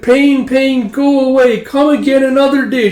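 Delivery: put-on high sing-song child voice; little girl's rhyme. Yoko chanting a rhyme over Mama's wound, high child voice. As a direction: chant it like a small child comforting. Child soothes dying mother.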